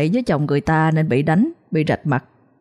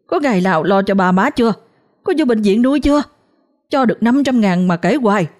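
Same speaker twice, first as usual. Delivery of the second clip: bursting into angry tears; 4 semitones higher than usual. Acted. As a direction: throw it back at them, crying. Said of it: "tức tưởi bật khóc".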